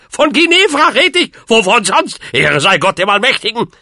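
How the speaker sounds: high, furious outburst; loud, high-pitched indignant cry; shouting. A narrator's reading. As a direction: yell it in utter exasperation. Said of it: "schrie Onkel Depp".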